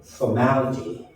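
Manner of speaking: "Formality" slowly, with MAL lifted and stressed; for-MAL-ty, weight on the middle. Shown as a demonstration. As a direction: push the second syllable of "Formality", MAL. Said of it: "mal should be stressed".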